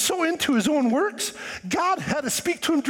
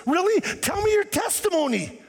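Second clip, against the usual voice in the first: eager listener; 6 semitones higher than usual. Retold or imitated. Eager listener asking Paul.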